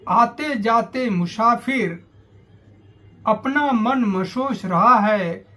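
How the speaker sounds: measured descriptive verse reading; poem recitation. Acted. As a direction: recite it line by line, pausing after each image.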